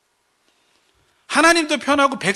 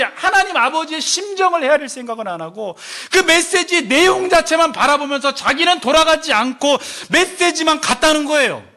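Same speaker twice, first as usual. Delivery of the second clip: ordinary talk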